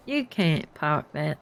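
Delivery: slow, laboured go at a London accent; attempted London accent. Shown as a demonstration. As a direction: try a London accent, word by word. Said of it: "I'm trying to do your accent".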